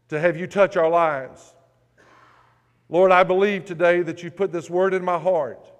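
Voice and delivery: earnest, measured prayer to God. Acted. Pastor leads opening prayer.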